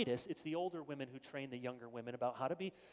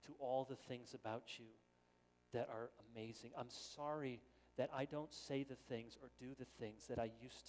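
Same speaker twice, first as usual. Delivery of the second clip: tender apology; 3 semitones lower, 5 dB quieter than usual. Pretend. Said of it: "We may have to say".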